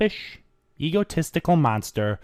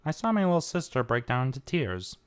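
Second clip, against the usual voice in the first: dangerously calm; 6 dB quieter than usual. Acted. Brother confronting Trixie about his sister, dangerously calm. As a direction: hold the anger under a calm surface. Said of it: "his voice now dangerously calm".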